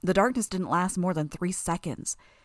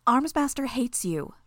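higher, slow, called over noise; raised voice; 6 semitones higher, 3 dB louder than usual. A narrator's reading. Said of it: "raising her voice to be heard".

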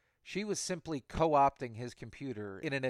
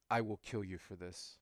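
emotionless; 3 semitones lower, 5 dB quieter than usual. Acted. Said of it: "There was no emotion in his voice".

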